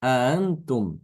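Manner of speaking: Antum with the hamzas merged smoothly; softened hamza. Shown as a demonstration. Teacher modelling the easier tashil reading. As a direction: glide through Antum without the double stop. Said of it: "Kalau ini tidak demikian".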